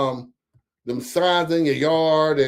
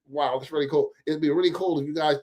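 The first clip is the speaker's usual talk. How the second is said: mock interview voice. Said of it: "that's how, like, the interview voice".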